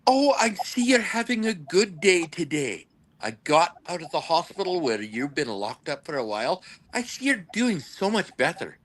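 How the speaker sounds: mock-polite proper English; politely insulting. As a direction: deliver a veiled insult with exaggerated courtesy. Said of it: "you can be an asshole when you're polite".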